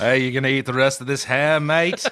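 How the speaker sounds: put-on British accent. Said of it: "Shaq sounds a lot like a singer".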